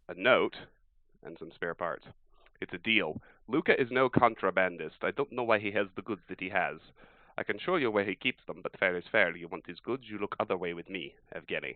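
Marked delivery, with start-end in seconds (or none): 2.6-11.7 lightly put-on Russian accent, mild; a hint of a Russian smuggler's accent. Player voicing a note writer in a Russian accent. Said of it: "I decided to do an accent".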